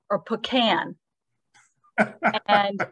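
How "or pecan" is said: pecan as PUH-kan; pecan, stress at the start; pecan, fourth way. Shown as a demonstration. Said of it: "So you can say".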